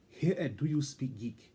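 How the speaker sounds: stiff, stately show-host voice; formal announcer voice. Pretend. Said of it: "I will keep this voice just for this one part".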